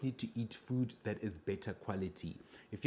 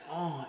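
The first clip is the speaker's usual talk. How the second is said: mock blissful "oh" over food; orgasmic eating moan; 6 semitones higher than usual. YouTuber mimicking overjoyed eaters, orgasmic sigh. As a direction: imitate a diner sighing in ecstasy. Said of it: "it's almost o-, orgasmic to them".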